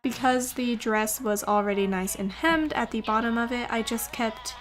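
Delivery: soft, even tutorial voiceover; calm how-to narration over music. Acted.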